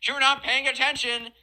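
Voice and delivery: lightly voiced annoyed lecturer; exasperated kid. Kid scolding classmates for not listening, mild mock exasperation. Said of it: "He's like".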